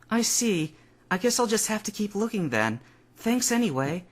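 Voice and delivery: politely dismissive; Misty's voice. A narrator's reading.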